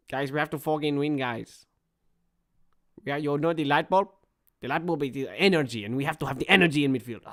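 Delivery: lightly imitated accented football manager; mock team talk in a put-on foreign accent; Mikel Arteta. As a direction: coach explaining tactics, accent put on. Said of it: "Arteta accent".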